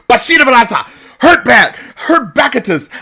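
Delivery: high, loud fake wizard curse; mock spell. Imagining Black folks with wands, a loud high mock curse. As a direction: fling a pretend spell.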